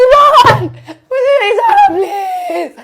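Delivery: high, loud panicked begging shout; desperate pleading. Retold or imitated. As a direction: scream it as if being dragged away. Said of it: "मैं यूं नीचे बैठ गई हूँ कि".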